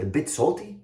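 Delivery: incredulous echo. Acted. Rabbi repeats the offending words.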